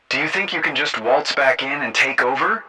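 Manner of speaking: indignant high-voiced challenge; challenging. A narrator's reading. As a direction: challenge him, ending on a high question. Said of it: "Jenna challenged".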